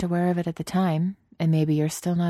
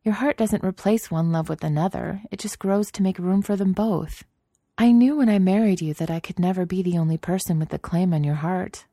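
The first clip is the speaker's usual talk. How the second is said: reassuring; 4 semitones higher than usual. Acted. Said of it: "she assured him".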